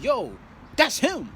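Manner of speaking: high excited whisper-call of classmates; classmates pointing out. Retold or imitated. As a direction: mimic kids spotting him. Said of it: "people like".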